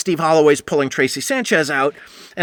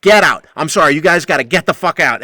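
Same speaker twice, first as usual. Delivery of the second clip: heated shouting; 5 semitones higher, 4 dB louder than usual. Retold or imitated. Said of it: "then I lost it".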